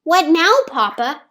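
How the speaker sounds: put-on a little girl keen to keep going; Theo's voice. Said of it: "asked Theo".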